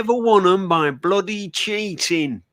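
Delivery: slow, deliberate impression of a blunt old football manager; a light take on the legendary manager, every word slowed and weighed; Brian Clough voice. Fan imitating the manager telling Leeds players to bin their medals, slow mock-stern voice. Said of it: "That's a brilliant impression".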